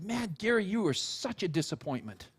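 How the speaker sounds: mildly let-down, softening at the end; quiet mock reproach, sinking away; acted sigh of disappointment; disappointed. Acted rebuke, falling away.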